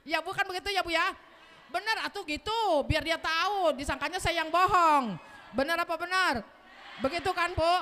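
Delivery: loud, high preaching call; preaching shout. Real, not acted. Preacher shouting to the mothers in the audience.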